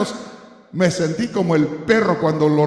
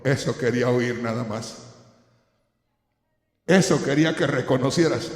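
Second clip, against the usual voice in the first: kindly grandfather; 5 semitones lower than usual. Retold or imitated. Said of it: "del papá o del abuelo bonachón".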